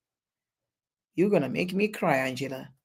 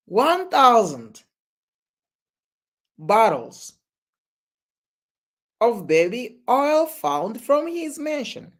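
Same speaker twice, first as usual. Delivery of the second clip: incredulous repeat; 5 semitones higher, slower than usual. Real, not acted.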